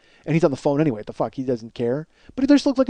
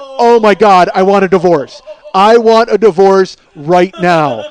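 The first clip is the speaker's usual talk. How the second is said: louder, slowed mock demand for a divorce; mock outraged outburst; 6 dB louder, slower than usual. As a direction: ham up the outrage at his wife. Mock outrage at wife's remark.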